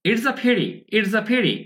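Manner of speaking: "it's a pity" run together smoothly; linked contraction. Shown as a demonstration. Teacher modelling spoken English, "it's a pity" linked as one. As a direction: link "it's a" straight into "pity". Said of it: "শব্দ একসঙ্গে যুক্ত করতে পারেন".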